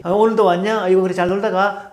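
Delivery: a hint of an elderly man's hearty greeting; imitating an old man. Old man greeting the returning teens, lightly imitated. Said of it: "어르신이 또 나타난 거예요".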